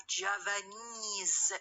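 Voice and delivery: Javanese said slowly, stress on the last syllable -ese; stress on final -ese. Shown as a demonstration. Teacher illustrates a stress-carrying suffix, leaning on the -ese in Javanese. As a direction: draw out the -ese ending of Javanese. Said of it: "the stress carrying suffix".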